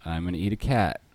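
high, loud puppet alien voice; squeaky wisecracking alien puppet; Alf impression. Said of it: "can you do an Alf impression".

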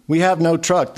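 a lightly read high wail; mild mock wail of despair; wife wailing that they have no truck. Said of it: "the wife wailed".

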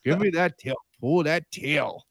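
high, slow cooing at a cat; baby-talk the cat, up high; kitty voice. Pretend. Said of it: "my voice now is like".

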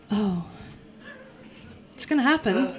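breathy gasping oh of anticipation; gasp, then anticipate it; voiced gasp. Shown as a demonstration. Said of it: "a kind of voiced gasp".

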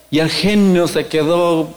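ordinary talk

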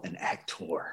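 "actor" with a drawn-out, hard "-TOR"; "actor" said theatrically, full O in the last syllable; hard final O. Acted. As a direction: stretch the end of actor into a grand "ac-TOR". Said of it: "with the hard O".

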